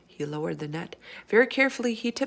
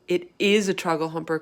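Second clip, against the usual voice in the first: exasperated; 5 dB louder than usual. Acted. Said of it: "cried the exasperated B F G".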